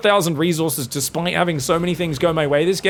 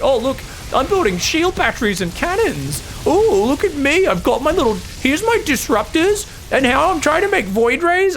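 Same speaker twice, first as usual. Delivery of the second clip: preen like a player showing off toys; mocking Dark; 10 semitones higher than usual. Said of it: "He's like".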